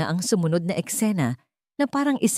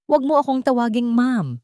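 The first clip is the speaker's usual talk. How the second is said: pressed, forceful rebuke a bit louder and higher; firm scolding; 6 semitones higher, 4 dB louder than usual. A narrator's reading. Mother-in-law snaps at Celine, firm and scornful. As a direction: cut her off sharply, each word pressed. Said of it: "mariing sabi ni Eliza".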